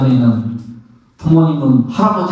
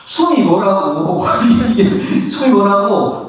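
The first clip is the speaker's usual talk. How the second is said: laughing; 5 semitones higher than usual. Real, not acted. Monk mocking breath attachment, laughing. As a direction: let a laugh take the words.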